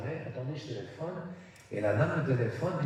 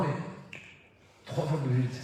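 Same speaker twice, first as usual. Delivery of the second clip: loud aside; 4 dB louder than usual. Real, not acted. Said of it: "comme je parle maintenant".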